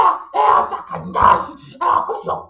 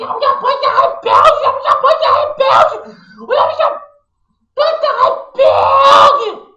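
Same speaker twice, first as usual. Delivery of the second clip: building shout; 2 semitones higher, 3 dB louder than usual. Pretend. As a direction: hammer it home louder each time. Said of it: "repeats louder". (gritando cada vez mais alto "banda rebelde")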